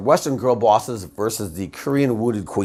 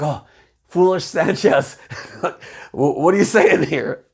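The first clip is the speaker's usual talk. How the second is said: slow, strained, higher mock calm; suppressed jealousy; 5 semitones higher than usual. She warns Sanchez with forced calm and hidden jealousy. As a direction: fake sweetness over barely contained anger. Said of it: "trying to keep it in".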